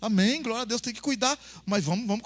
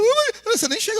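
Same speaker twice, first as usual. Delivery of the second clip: protesting wife; 13 semitones higher, 6 dB louder than usual. Retold or imitated. Esposa Débora protesta.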